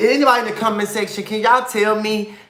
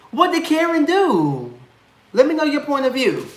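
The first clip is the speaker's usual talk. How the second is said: playful high voice; 9 semitones higher than usual. Acted. Asking viewers playfully.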